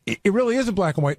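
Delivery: ordinary talk, nothing marked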